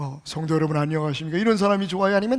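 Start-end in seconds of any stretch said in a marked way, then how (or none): 0.0-1.4 heavy, deep, low-register voice. Demonstrating the voice people like in a man, deep, low voice. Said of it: "중저음이 쫙 깔리는 거죠".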